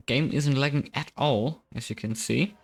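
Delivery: dry sarcastic remark. Acted. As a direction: say it deadpan and ironic. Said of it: "That's sarcastic".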